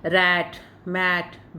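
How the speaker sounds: रैट, मैट dragged out very slowly, open ae vowel; slow teacher demo of the ae vowel; slow model words. Shown as a demonstration. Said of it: "जैसे ए के लिए आपने".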